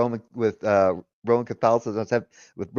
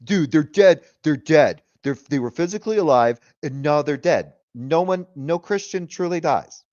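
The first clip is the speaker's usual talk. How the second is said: mildly imitated frustration; frustrated friend; 3 semitones higher than usual. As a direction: mimic the friend losing patience. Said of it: "he got even more frustrated".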